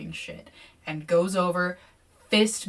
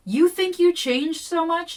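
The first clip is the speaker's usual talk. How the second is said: higher, louder and slow, a sneering snarl; 10 semitones higher, 6 dB louder than usual. Acted. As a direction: sneer it down at her. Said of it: "Deidre snarled".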